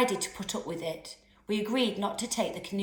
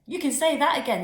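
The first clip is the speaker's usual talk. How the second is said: higher and louder, spluttering with laughter; 7 semitones higher, 5 dB louder, faster than usual. A narrator's reading. Friend in the canoe spluttering laughter.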